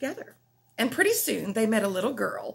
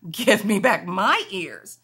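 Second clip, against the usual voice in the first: slow; 3 semitones lower, 5 dB louder, slower than usual. Acted. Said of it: "he said".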